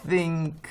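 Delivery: isolated "think", tongue-between-teeth th; voiceless TH. Shown as a demonstration. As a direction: demonstrate the hissing th in "think". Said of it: "이 티에이치로 발음 나는 게".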